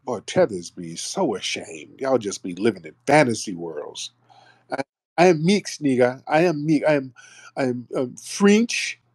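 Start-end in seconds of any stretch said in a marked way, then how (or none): 4.7-9.0 mocking the caller. Host mocks caller's claimed ancestry.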